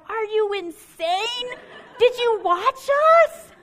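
wife stunned the crowd wants them back; laughing disbelief. Retold or imitated. Disbelief at being called back.

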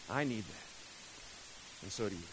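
soft whisper. Real, not acted.

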